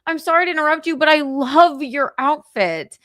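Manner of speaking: mock gushing compliment to strangers; gushing excitement. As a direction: fawn over her outfit, bubbly. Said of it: "I was like".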